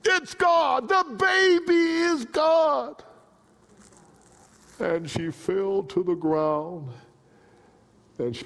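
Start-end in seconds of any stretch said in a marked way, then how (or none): 0.0-3.0 high, loud shouted revelation; acted scream. Actress shouting the scene with great gusto. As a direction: cry it out with full force. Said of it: "did the scene with great gusto".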